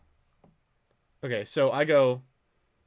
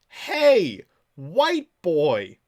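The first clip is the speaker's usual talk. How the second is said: loud, high-pitched mock holler; pestering call-out; 4 semitones higher, 9 dB louder, much slower than usual. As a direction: holler it to get his attention. Acting out a repeated pestering message.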